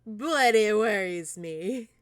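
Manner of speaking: slow, loud, drawn-out concern; emphatic worry. Real, not acted. Repeats worry about villain's smile.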